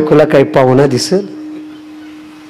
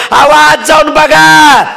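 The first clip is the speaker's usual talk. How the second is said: wailing wife; 11 semitones higher than usual. Acted. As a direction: drag the words out in a high complaining cry. Wife cries to mother-in-law.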